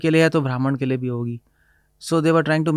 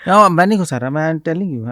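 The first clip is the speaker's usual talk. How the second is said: louder, higher laughing denial; protesting; 3 semitones higher, 6 dB louder than usual. Real, not acted. The speaker protesting the host's jab, louder and higher. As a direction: push back with amused energy.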